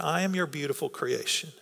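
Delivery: a soft personal affirmation; quiet prayer. Shown as a demonstration. Preacher quietly models a prayer to God for the congregation. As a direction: say it softly, like a private word to God. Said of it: "Right now, just tell God that".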